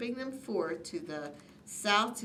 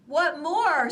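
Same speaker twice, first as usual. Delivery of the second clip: high, loud snap; snapped; 8 semitones higher, 9 dB louder than usual. A narrator's reading. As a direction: bite the question off sharply. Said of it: "snapped the Lorax".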